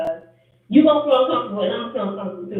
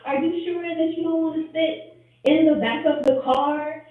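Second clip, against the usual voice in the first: high mock-concerned voice; 8 semitones higher than usual. Quoting friend again, higher.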